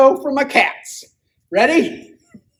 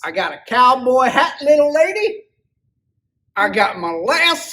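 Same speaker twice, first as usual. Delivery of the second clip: cowboy voice; 3 semitones higher than usual. Acted. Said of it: "you got the best cowboy voice".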